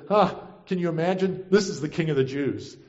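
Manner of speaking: mildly mock-incredulous; a scoffing huh, then drop to a dry read. Roman government ridicules Jesus, mildly mocking. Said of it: "mocking both Jesus and the Jewish people".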